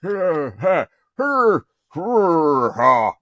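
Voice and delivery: very high, loud falsetto; hammed-up high-pitched hellos, breaking into silly squeals. Actor trying tree voices on a director, falsetto. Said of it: "don't want falsetto".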